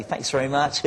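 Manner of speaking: lightly put-on radio DJ sign-off; a hint of a young local radio DJ; mild mock DJ voice. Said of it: "so I had kind of a higher voice".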